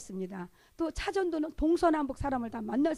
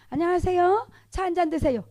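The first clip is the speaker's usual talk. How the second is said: high, louder street greeting; acted cheery greeting; 5 semitones higher, 4 dB louder than usual. Greeting a passer-by with a cup of tea, cheerily. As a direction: call out politely with a rising lilt.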